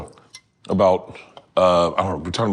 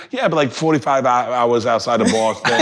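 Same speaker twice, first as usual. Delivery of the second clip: Boston dude impression. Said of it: "He goes".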